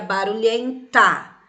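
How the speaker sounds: "barulhenta" slowed, final "ta" set apart; stressed ending. Shown as a demonstration. Teacher shows children the feminine form, "barulhenta" with stressed final "ta". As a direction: lean on the last syllable "ta" of "barulhenta".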